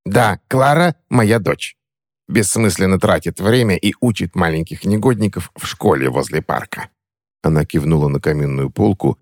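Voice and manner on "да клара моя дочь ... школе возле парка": scornful crone. Acted. Witch scorns daughter's job.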